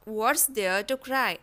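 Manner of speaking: slow soft repeat. Shown as a demonstration. Teacher echoing softly for learners, slow. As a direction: echo it gently and slowly. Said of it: "तो इसे हम बोलेंगे".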